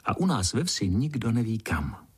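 gentle bedtime story narration. A narrator's reading. Vypravěč uvádí pohádku. (jemné vyprávění pohádky dětem)

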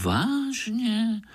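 really?, eyes wide; surprised. A narrator's reading. Pája wonders at the frog's news, high. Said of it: "podivil se Pája".

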